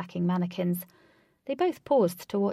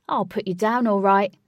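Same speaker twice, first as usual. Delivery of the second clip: shouting; 8 dB louder than usual. Acted. Retort before throwing him.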